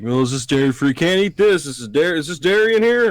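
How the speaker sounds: high, mocking fussy-aunt questions; mimicked fussy aunt. Mimics aunt fussing over dairy.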